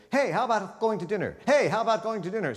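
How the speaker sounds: both takes said high with the same tune; same flat repeat. Shown as a demonstration. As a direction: repeat the line with no change in inflection. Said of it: "You would never say".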